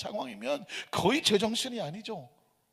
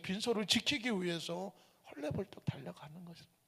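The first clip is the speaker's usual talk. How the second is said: softer, almost whispered; hushed narration; 9 dB quieter than usual. A narrator's reading. Pastor revealing the doctor's reason, hushed. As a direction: lean in and breathe it out.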